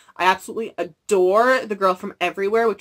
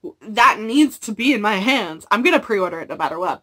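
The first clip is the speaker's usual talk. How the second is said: excited disbelief; 3 semitones higher, 6 dB louder than usual. Retold or imitated. To viewers about the upcoming book, excited rush. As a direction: squeal at the news of a new book.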